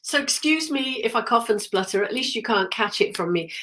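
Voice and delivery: soft, poorly voice; quiet. Real, not acted. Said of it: "I wish I was feeling better".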